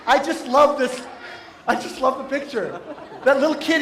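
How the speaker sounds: ordinary talk, nothing marked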